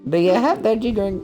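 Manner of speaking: high-pitched mock Asian accent. Repeating a line from the old video, in a mock Asian accent. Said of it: "I miss your Asian accent".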